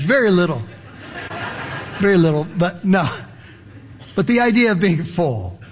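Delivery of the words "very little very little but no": chuckling through the words; laughing. Real, not acted. Preacher admitting the story barely fits, chuckling.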